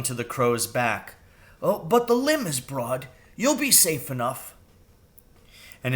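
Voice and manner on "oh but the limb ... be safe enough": high reassuring crow voice; a bird coaxing a friend. Acted. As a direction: crow voice, higher. Crow voiced in read story.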